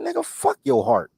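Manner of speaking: high, incredulous shout; reenacting yelling at a crying friend; wild yell. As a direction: bark it at your heartbroken friend. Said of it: "bro, I was wilding".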